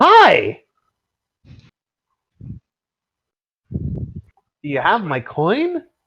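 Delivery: bright cheery voice. Narrating a game scene, voicing a sudden newcomer in a very cheery voice. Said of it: "very cheery voice all of a sudden".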